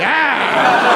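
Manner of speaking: comic cry of alarm; re-enacted yelp at a stray bullet; mock scream. Dodging a bullet that bends.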